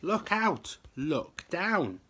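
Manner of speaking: high, loud urgent shout; warning yell. A narrator's reading. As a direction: shout the warning across the bridge. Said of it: "who yelled".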